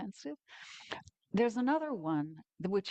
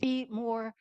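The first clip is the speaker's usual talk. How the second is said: eager, raised and a touch louder; keen demo of the more sign; enthusiastic; 5 semitones higher, 3 dB louder than usual. Shown as a demonstration. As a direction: say it like you're starving for more. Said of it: "you can be more enthusiastic".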